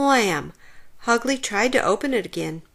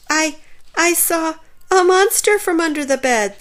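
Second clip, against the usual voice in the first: whimpered; 7 semitones higher, 4 dB louder than usual. A narrator's reading. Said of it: "the little skeleton whimpered".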